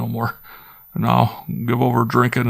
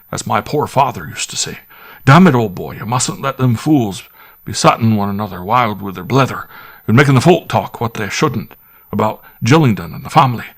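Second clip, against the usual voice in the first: squire pressing his butler, higher and louder, edgy; half-angry squire; 3 semitones higher, 4 dB louder than usual. Acted. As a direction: grumble and coax by turns, a country squire with a temper. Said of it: "but not quite so angrily as before".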